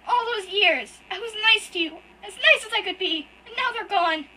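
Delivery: high, loud, tearful and breaking; sobbing out betrayal at full force; crying outburst. Acted. Hurt boy screams at his brother through tears, loud and high.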